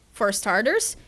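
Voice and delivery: lightly voiced, swinging, incredulous banter; bickering characters. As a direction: argue it out, then play it down. Voices two characters in dialogue.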